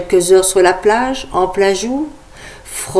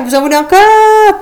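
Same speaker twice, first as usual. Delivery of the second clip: louder hyped crowd call; 12 semitones higher, 4 dB louder than usual. Acted. Host repeats louder for crowd.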